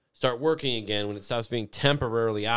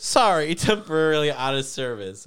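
raised, louder mock error message, laughing through it; mock machine voice; 5 semitones higher, 6 dB louder than usual. The ATM telling them it's out of service, in a mock robotic voice. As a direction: play the broken ATM apologizing with a snort. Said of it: "it just goes".

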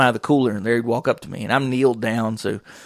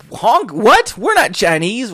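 imitating her indignant reply, pitched up; mock affronted, higher voice; attitude and flair; 9 semitones higher, 5 dB louder, slower than usual. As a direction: act out her sassy disbelief. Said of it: "a little bit of attitude and flair".

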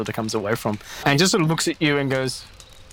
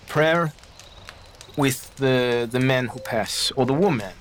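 searching for words; slower than usual. Acted. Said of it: "tries to pick his word".

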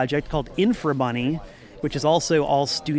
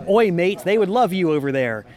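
put-on British accent; 3 semitones higher, 4 dB louder than usual. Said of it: "I'm not gonna try to duplicate his accent".

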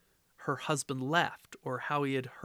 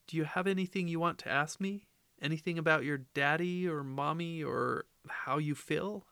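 chirruping. Acted. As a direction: chirp it out brightly and fast. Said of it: "I chirrup".

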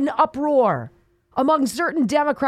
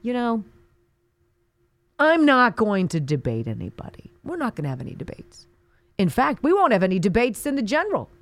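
mock Biden. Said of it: "what does Biden say?".

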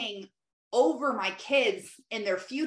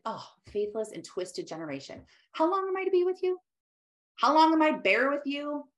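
exasperated, climbing higher and faster; annoyed Jesus; 5 semitones higher than usual. Retold or imitated. Jesus fed up with his disciples, annoyed and exasperated. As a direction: throw up your hands in annoyance. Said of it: "you hear, like, his, like, annoyance".

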